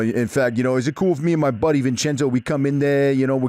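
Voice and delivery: put-on lightly done New York Italian accent; Italian-American accent. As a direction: play a Jersey wise guy on the phone. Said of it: "You should do a fucking Italian accent".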